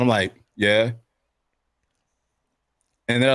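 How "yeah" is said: low, rising noncommittal yeah; guarded response. Shown as a demonstration. Rapper showing how he answers fans, low and guarded. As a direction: give a wary, questioning reply. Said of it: "This is exactly how I respond".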